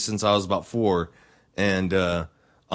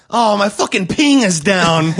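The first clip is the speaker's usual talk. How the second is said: laughing gamer whine; 6 semitones higher, 4 dB louder than usual. Retold or imitated. Joining the gamer impression.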